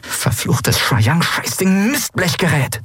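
hissed, fed-up swearing at the armguard; angry hiss. A narrator's reading. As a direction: curse the gadget through frustration. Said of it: "zischte Endriel".

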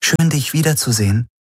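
tender welcome in a lifted voice; gentle. A narrator's reading. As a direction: say it gently, pitched well up. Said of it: "sagte Kirai sanft".

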